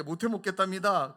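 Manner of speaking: loud teasing report; tattling. Retold or imitated. Pastor repeating friend's complaint to elder, loud tease. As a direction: tell on him loudly. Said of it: "꼬질렀어요".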